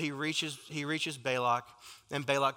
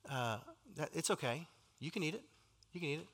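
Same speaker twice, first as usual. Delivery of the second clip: much softer, confiding coax; sly hushed persuasion; 8 dB quieter, faster than usual. Retold or imitated. Balaam telling God's people sin is okay, hushed and sly. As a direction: lean in and tempt them quietly.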